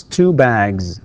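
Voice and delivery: very slow "bags" ending in a buzz; voiced plural Z. Shown as a demonstration. Teacher showing the plural S pronounced Z, slow model. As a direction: draw out "bags" and finish on z. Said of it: "تكتب S وتنطق".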